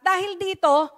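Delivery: emphatic preaching. Real, not acted.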